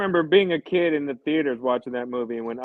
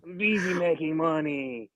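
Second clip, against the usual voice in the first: doll voice; 2 semitones higher than usual. Pretend. Doll keeps talking.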